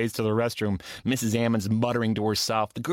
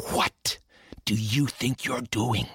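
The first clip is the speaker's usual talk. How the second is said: hissed; 3 semitones lower, slower than usual. Acted. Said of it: "and hissed".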